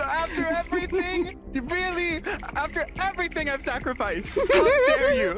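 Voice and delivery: hammed-up tearful outrage; crying with rage. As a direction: wail it like a betrayed hero. Mock betrayal after being shot.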